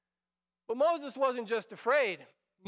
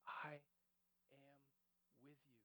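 a barely audible, lower whisper; God whispering comfort to the frightened listener; 8 semitones lower, 25 dB quieter, faster than usual. Pretend. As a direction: breathe it as a faint whisper. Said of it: "God is whispering to you".

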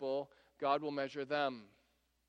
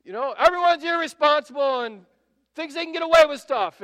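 higher, louder righteous ranting; seething rage; 8 semitones higher, 13 dB louder than usual. Retold or imitated. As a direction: rant like an indignant moralizer. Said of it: "seething with rage".

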